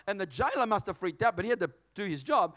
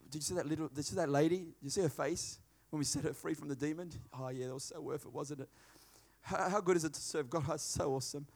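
hushed awe; 7 semitones lower, 8 dB quieter than usual. Acted. Paul and Silas talk in prison.

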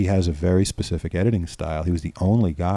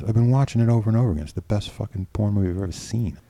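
rushed, raised voice of delight; gushing praise; 3 semitones higher than usual. Retold or imitated. Director raving over the demo, fast and excited. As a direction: rave about it like a fan. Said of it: "He goes".

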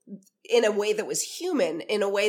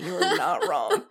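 high, slow, laughing through the words; laughing concession; 11 semitones higher, slower than usual. Retold or imitated. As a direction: giggle out a reluctant agreement. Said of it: "you're just kinda like".

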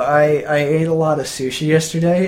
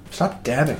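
fake cough; 5 dB quieter than usual. Real, not acted. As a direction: cough faked over the words. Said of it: "That was a fake cough".

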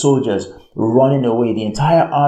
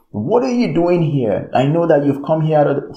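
higher-pitched mock scolding; upset; 4 semitones higher than usual. Eliab challenging his brother David, indignant. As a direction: demand an answer like an annoyed older brother. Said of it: "he was just upset".

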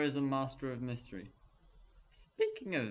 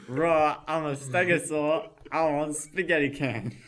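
louder roaring dinosaur demand; loud goofy stegosaurus; 2 semitones higher, 9 dB louder than usual. Acted. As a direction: roar it and demand the cans.

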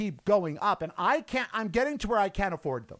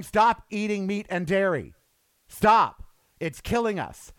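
a pretend president's plea, with a loud punch on Stop; mock urgent plea; 3 dB louder than usual. Biden urging the public to quit meat, mock urgent plea.

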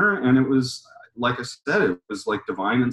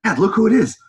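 high, urgent call to dad; acted-out excited alert; 8 semitones higher, 4 dB louder than usual. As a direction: get his attention, pitched way up. Excitedly calling his dad's attention.

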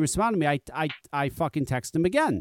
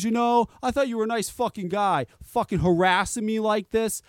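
higher, aggrieved mock complaint; imitated indignation; 4 semitones higher than usual. Mechanic accuses customer of harassing him, indignant. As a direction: imitate the mechanic griping, worked up. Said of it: "out in the open going nuts".

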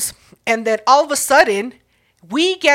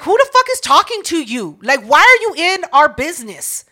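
retold annoyance, pitch raised; indignant challenge; 4 semitones higher, 4 dB louder than usual. Concertgoer turning on a meddling stranger, indignant challenge. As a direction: challenge him with mock indignation, higher and firm.

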